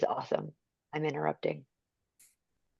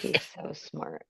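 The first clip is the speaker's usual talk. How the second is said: slow whispered aside; 6 dB quieter, slower than usual. Real, not acted. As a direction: whisper it slowly. Whispered aside during video.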